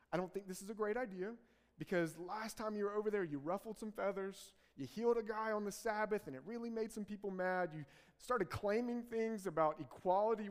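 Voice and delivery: hint of nervous pleading friends; worried disciples. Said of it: "the disciples are like".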